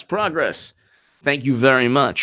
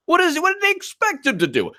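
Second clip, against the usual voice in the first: much higher disbelieving question; incredulous; 13 semitones higher than usual. Real, not acted. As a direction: ask it in total disbelief.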